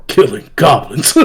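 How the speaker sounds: lightly imitated deadpan answer; a hint of stoic monotone; monotone stoic slayer. Goblin Slayer toy answering little girl, understated monotone imitation. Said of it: "monotoned and stoic".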